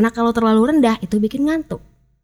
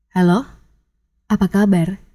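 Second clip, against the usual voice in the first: low "Halo" rising like a question, pause, low "apa kabar"; different emphasis, subdued greeting; 3 semitones lower than usual. Shown as a demonstration. Coach demonstrating how emphasis changes meaning, low questioning greeting. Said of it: "diucapkan dengan penekanan yang berbeda".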